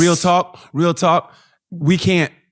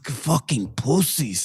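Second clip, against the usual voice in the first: slow, softer, contemptuous mock voice; imitated mannish woman; 2 semitones lower, 6 dB quieter, much slower than usual. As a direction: put on her dismissive manly delivery, slowly. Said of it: "she was like a man".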